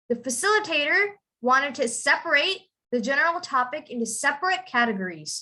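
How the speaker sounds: verb "separate" with full "rate", second "separate" with short "rit"; noun-verb pronunciation contrast. Shown as a demonstration. Teacher modelling the sentence for a student, contrasting endings. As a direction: sound out "ate" in the first "separate", shorten it in the second. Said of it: "you have to pronounce it".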